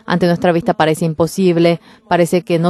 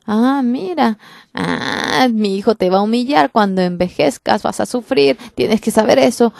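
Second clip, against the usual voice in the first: higher, gloating and scornful; mocking taunt; 4 semitones higher than usual. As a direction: sneer at your rival. Penina taunting Ana.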